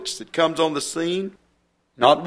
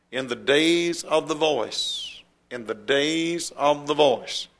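"days of the voice" slow and deliberate, "voice" set apart; emphasis on "voice". Shown as a demonstration. Preacher repeating the verse for his listeners, slow stress on "the voice". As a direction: stretch out "days", then land weightily on "voice". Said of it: "the emphasis is placed on the voice".

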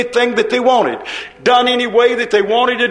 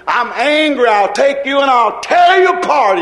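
angry God; 3 semitones higher than usual. Acted. Preacher voicing God threatening the sinners, angry shout. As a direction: thunder it out as a wrathful God. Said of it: "I'm angry, God would say".

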